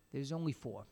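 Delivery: soft, grieving admission; as if betrayed, mourn the missing cent; bitter grief. Acted. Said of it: "in a voice of bitter grief".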